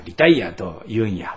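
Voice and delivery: lightly imitating a Kyoto dialect ending on リタイアと言うんや. Pastor quoting a retired colleague in mild Kyoto dialect. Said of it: "あの人は京都弁ですが".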